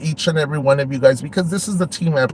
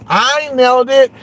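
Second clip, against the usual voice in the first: higher and louder, gloating I told you so; triumphant shout; 9 semitones higher, 4 dB louder than usual. Real, not acted. Streamer gloating to chat about the rival, triumphant. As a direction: crow the win to viewers. Boasting the prediction came true.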